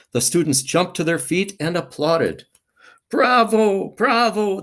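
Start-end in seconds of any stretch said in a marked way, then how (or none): 3.1-4.6 loud, high bravo bravo, like an applauding crowd; cheering. A narrator's reading. Students on their feet cheering the officer, loud bravo. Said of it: "they cheered".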